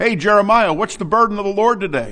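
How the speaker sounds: put-on, high, jeering, scornful, mocking taunt. Explaining a verse, acting out people asking the prophet: imitating a mocking question. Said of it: "they're asking it mockingly".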